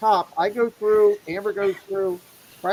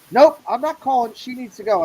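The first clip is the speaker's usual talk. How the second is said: loud refusal; 6 semitones higher, 5 dB louder than usual. Retold or imitated. Retold gatekeeper refusing again.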